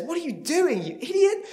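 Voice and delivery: stuck man scolding the friend who jumped in; exasperated laughing. Acted.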